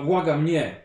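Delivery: gravelly inquisitor begging no; gravelly pleading voice. Acted. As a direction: beg through a rough throat. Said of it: "powiedziała swoim żwirowym głosem".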